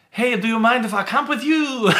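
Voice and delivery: French Canadian camper asking to join, bad mock French accent. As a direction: imitate a friendly French Canadian camper, badly. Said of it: "a French sort of accent, and that was terrible".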